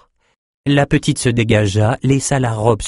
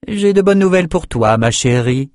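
voix de Victoria enjouée; 7 semitones higher, 3 dB louder than usual. Acted. Victoria annonce une bonne nouvelle.

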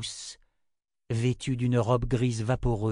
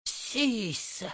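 high, drawn-out eerie call; stern summons; 12 semitones higher, 4 dB quieter than usual. Acted. Old mother summoning her daughter from behind, stern. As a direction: call the name like a chiding mother.

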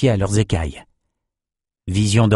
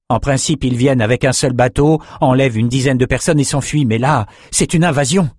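slightly raised, urgent villager's voice; lightly voiced fisherman, agitated; worried old fisherman; 3 semitones higher than usual. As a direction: explain the danger with mounting alarm. Old fisherman explains the attack.

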